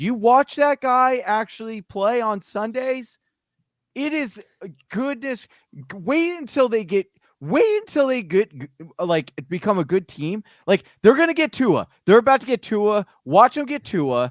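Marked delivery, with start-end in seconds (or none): 11.0-14.3 worked-up, excited, swooping, loud and fast. Predicting a team will get a player, excited. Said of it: "I'm just getting so excited right now".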